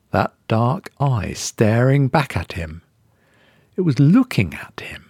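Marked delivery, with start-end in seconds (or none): 3.8-5.0 breathy horror whisper; eerie whisper. A narrator's reading. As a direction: hush it like a terrible secret. Horror realization in narration.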